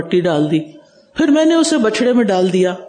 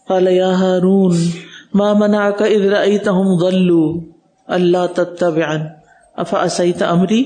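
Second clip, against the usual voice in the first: Quran recitation. Acted. Preacher recites Moses' words, melodic chant.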